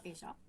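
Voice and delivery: "ella" with a hushing SH, "esha"; sh variant of ella. Shown as a demonstration. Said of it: "on peut dire ella".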